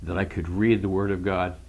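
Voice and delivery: real choked-up testimony, voice catching into whispers; tearful blubbering. Real, not acted. Believer recalling first understanding God's word, overcome and tearful. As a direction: fight back tears, with long halting pauses. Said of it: "I'm sorry I'm blubbering".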